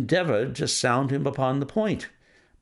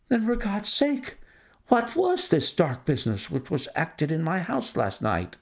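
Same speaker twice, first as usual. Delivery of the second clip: higher, pleading banker's voice; anxious banker; 5 semitones higher than usual. Acted. The banker begging Holmes about the gems, higher. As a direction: clutch at Holmes for an answer.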